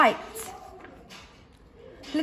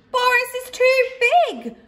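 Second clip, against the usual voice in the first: squeaky, much higher mouse cry; a tiny mouse crying out in alarm; little mouse crying out; 13 semitones higher, 4 dB louder than usual. A narrator's reading. Little mouse crying out at the huge bear, squeaky. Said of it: "cried one little mouse".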